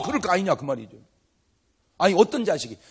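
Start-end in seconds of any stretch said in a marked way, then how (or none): none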